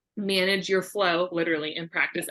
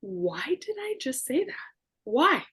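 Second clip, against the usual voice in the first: whispered, higher thought to herself; a mock-horrified private whisper; inner whisper; 6 semitones higher than usual. But in my mind.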